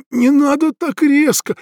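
высоко и громко, умоляюще; взмолиться, как испуганный; жалобно. A narrator's reading. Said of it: "сказал я жалобно". (жалобный высокий вскрик)

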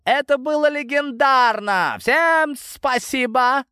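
high, joyful cry to the crowd; joyful shout. Acted. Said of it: "радостно закричал".

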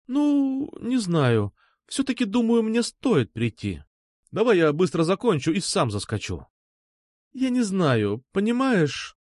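high, hesitant and guilty; unsure, guilty. A narrator's reading. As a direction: falter like she's hiding something. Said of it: "Голос её прозвучал очень неуверенно и даже виновато".

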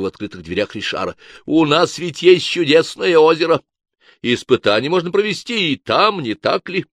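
oily, smug suggestion; smug Richard. A narrator's reading. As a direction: Richard offers the lake, sly and syrupy. Richard speaks at the doors.

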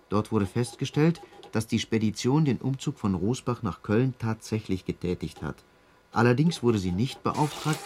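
dry, formal official read; formal report read aloud. Acted. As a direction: read the findings out flatly. Reads out police report.

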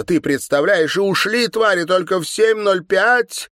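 high, loud, outraged complaint; indignant outburst. A narrator's reading. Anna tells her mother about the inspectors, outraged and loud. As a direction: spit out the grievance.

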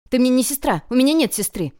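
put-on a child's loud angry shout; furious little boy shouting. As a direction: yell it at her like a stubborn kid. Boy furiously denying his sister.

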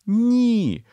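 high loud sobbing cry; desperate sobbing no; sobbed no. A narrator's reading. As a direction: cry out no through a sob. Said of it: "схлипнула Ем".

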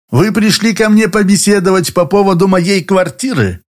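Moxy teasing the lawyer, lightly amused; smirking. A narrator's reading. Мокси, с лёгкой усмешкой. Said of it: "усмехнулся Мокси".

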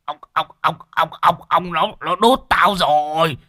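high, loud, stammering panic call; panicked stammering. A narrator's reading. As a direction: shriek for help while being stung. Stung by a bee, panics.

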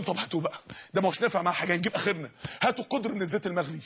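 low, hushed scheming orders; a hint of a menacing king plotting; lightly voiced cruel king. Roman king ordering the boiling oil, low and scheming.

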